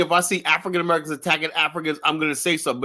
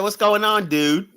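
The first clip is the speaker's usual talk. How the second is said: playboy voice; 5 semitones higher, much slower than usual. Acted. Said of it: "it's a Playboy voice".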